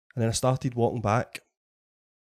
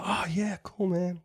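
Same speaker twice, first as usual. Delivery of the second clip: put-on American accent; 6 semitones higher, 7 dB quieter, slower than usual. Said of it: "Sorry if I'm killing your accent".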